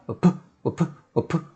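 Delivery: 우프 with 우 brief and force on 프; stress on second sound. Shown as a demonstration. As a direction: push straight through to 프 in 우프. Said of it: "바로 뒤에다 힘주면서". (우프에서 '프'에 힘주기)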